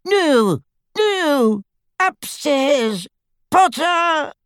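very high, thin cry of pain; pained wail. A narrator's reading. Tortured father betraying Potter to his attackers, pained high wail. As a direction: wail it out high, drawing out the words. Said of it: "a scream of pain from Xenophilius".

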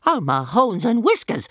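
high squealing little dragon voice; high-pitched creature yelp. A narrator's reading. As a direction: squeal it in alarm. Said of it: "squealed Toothless".

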